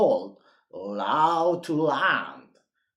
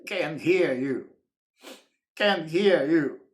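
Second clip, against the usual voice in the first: chorus of can't hear you; 4 dB louder than usual. Acted. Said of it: "said everyone".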